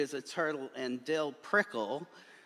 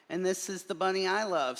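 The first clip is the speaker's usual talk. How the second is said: quick, higher loving reply; earnest protest; 7 semitones higher, 3 dB louder, faster than usual. A narrator's reading. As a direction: answer with devotion. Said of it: "said me, Marlon Bundo".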